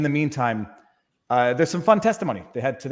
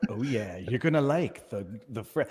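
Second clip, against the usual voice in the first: soft, low breathy ASMR parody; 5 semitones lower, 6 dB quieter than usual. Retold or imitated. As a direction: whisper it like an ASMR video. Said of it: "it's like A S M R voice".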